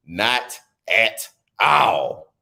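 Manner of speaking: "Not at all." drawn out in a mock sob; mock crying. Shown as a demonstration. Joking about the anchor, drawn-out mock crying. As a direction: stretch it out, pretend to cry. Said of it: "repeated take".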